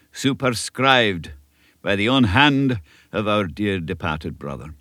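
lightly voiced elderly Scottish minister, earnest; a kindly country minister giving counsel; old Scots minister. Minister advising young Davy, a light Scots earnestness. Minister continues his speech.

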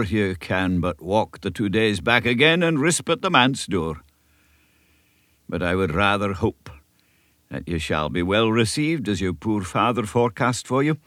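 lightly voiced elderly Scottish minister, earnest; a kindly country minister giving counsel; old Scots minister. Minister advising young Davy, a light Scots earnestness.

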